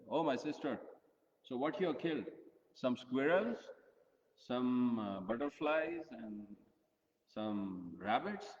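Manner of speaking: teasing. Retold or imitated. Prince teases his sister about her hunt, mockingly. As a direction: tease her like a cheeky big brother, drawing out "some rabbits". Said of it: "he started teasing her".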